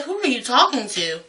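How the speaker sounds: soft, baffled question; confused. Retold or imitated. Coworkers asking the old lady who she means, acted confusion. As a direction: ask it softly, as if lost. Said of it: "we're all confused".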